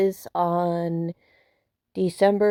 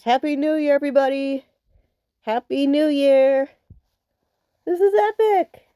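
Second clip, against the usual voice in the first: excited; 5 semitones higher than usual. Real, not acted. Cheering after midnight.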